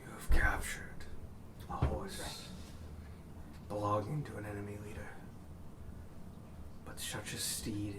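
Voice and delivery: hushed eerie voice in your head; breathy telepathic dragon whisper. Acted. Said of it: "you hear a voice in your head".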